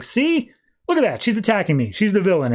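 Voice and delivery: high, vindicated retold protest; mock accusation. Catwoman points out to Superman she's attacked, accusing. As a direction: start high on the gotcha, then settle.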